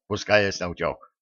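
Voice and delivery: usual speaking voice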